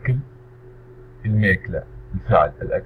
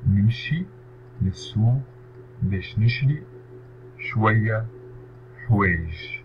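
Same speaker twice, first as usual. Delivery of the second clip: نمشي للسوق باش نشري شوية حوايج split into separate words; 4 dB quieter than usual. Shown as a demonstration. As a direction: pause after each word of the sentence. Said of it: "teacher splits sentence word by word". (تقطيع الجملة كلمة كلمة)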